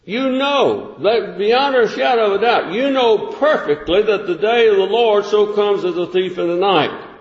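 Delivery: measured, deliberate Bible reading; scripture reading. Acted. Preacher reading scripture to his congregation, measured. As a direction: read the verse out to the congregation.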